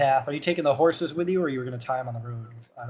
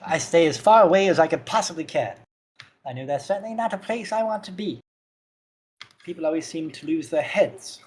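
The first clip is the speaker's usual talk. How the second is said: put-on frail old man; 3 semitones higher, 3 dB louder than usual. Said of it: "He's rather frail".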